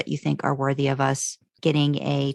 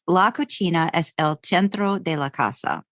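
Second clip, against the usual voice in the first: a tentative try at the Spanish title; hesitant Spanish pronunciation by a non-speaker; attempted Spanish. Shown as a demonstration. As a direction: read "La Cocina es el centro de la casa" as Spanish, carefully. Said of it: "I'm just gonna do it".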